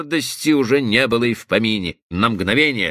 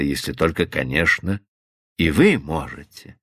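lightly voiced calm man; 8 semitones lower than usual. A narrator's reading. Cowperwood's voice held.

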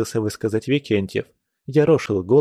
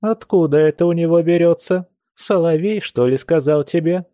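indignant outburst; 6 semitones higher than usual. Acted. Scolding outburst at the boy.

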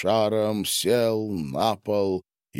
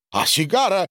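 high, loud exclamation; exclaiming; 11 semitones higher, 5 dB louder than usual. A narrator's reading. Boris cries out for his cigar in a high voice. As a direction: call out the question in a high voice. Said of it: "воскликнул Борис".

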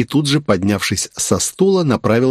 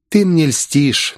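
purring, slow and higher; sweet purr; 7 semitones higher, much slower than usual. A narrator's reading. Princess purring back at Asami's compliment, sweet and slow. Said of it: "мило улыбнувшись, промурлыкала княжна".

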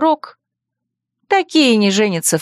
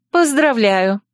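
forced calm; 2 semitones higher, slower than usual. A narrator's reading. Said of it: "чтобы голос звучал ровно".

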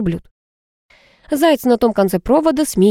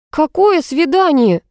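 high, slow, indignant exclamation; mildly shouted indignation; outraged cry; 8 semitones higher, slower than usual. A narrator's reading. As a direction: cry out in disbelief. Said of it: "закричала я".

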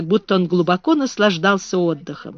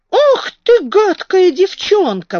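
furious exclamation; 12 semitones higher, 5 dB louder, slower than usual. A narrator's reading. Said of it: "воскликнул он".

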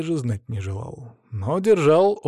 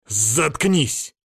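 mild harsh shout; angry bark. Acted. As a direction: snap at her to shut up. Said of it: "гаркнул я злобным жёстким голосом".

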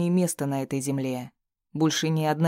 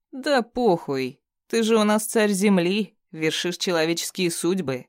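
sneering captive villain; 4 semitones higher, 3 dB louder than usual. Acted. Bound thug taunting his captor, mocking sneer. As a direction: jeer at him, barely altered voice.

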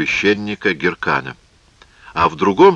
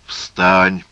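firm, slightly raised command; insistent; 4 dB louder than usual. Acted. Phasael urges the kneeling priest to rise, insistent. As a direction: urge him up with some force. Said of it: "настаивал Фазаэль".

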